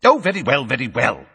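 loud, exasperated concession, starting high; snapping. A narrator's reading. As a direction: give in with irritation. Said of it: "snapped Fudge".

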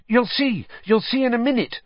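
bursting to reveal a secret; excited. A narrator's reading. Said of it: "said Hermione excitedly".

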